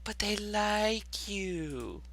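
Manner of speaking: slow teasing whisper. Acted. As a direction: whisper it slowly and creepily. Teasing about spiders.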